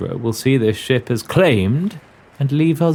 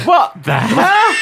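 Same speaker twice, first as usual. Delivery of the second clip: incredulous, high and slow; surprised; 13 semitones higher, 4 dB louder, much slower than usual. Real, not acted. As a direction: break off in disbelief. Breaking character at a word.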